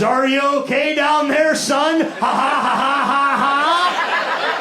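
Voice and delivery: mock him like a smug ref; mocking referee. Referee mocking the exhausted wrestler, taunting laugh. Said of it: "He was trying to get laughs".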